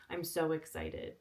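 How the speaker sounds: flat, dull, no excitement at all; monotone voice. Shown as a demonstration. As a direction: say it dead flat and bored. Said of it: "when I say I'm excited, I'm just like".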